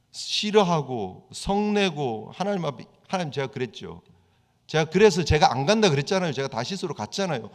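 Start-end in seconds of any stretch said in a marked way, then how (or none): 3.1-7.5 Jonah justifying himself. Retold or imitated. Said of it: "자기 행동을 정당화시키고 있습니다".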